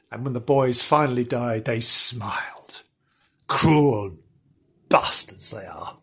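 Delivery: low, slowing, near-whispered horror; grim hush. A narrator's reading. Storyteller condemns the boys' murderers, grim hush. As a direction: sink into a dark, hushed disgust.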